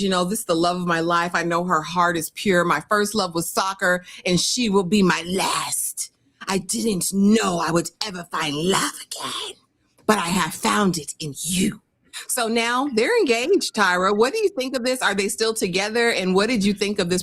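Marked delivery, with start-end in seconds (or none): 0.0-11.8 lightly voiced weepy lover; a hint of sobbing romance; mock lovesick vow. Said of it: "He says".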